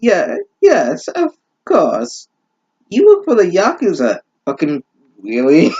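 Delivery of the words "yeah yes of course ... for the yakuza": higher, hammed-up cool boyfriend; mock Denmark voice. Reader voicing Denmark admitting his Yakuza job, high mock voice. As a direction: say it like a cheesy romance hero.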